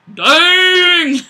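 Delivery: sudden high, loud dang; surprised exclamation. Real, not acted. Streamer reacting to a cocky comment with a loud, high exclamation. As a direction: blurt it out, caught off guard.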